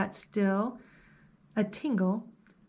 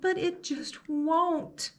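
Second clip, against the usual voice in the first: put-on higher, whiny kid voice; 7 semitones higher, slower than usual.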